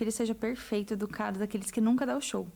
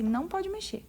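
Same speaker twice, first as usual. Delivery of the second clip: firm mother; 6 semitones higher than usual. Retold or imitated. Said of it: "você fala assim".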